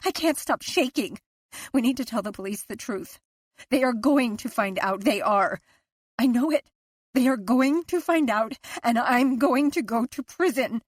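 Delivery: unravelling wife, near hysteria; frantic fear. A narrator's reading.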